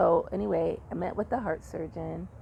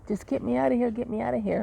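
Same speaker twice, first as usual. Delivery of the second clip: panicked plea; 5 semitones higher, much faster than usual. Retold or imitated. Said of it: "I would have these panic attacks".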